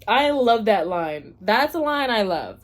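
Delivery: slow loud gush. Real, not acted. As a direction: gush over it.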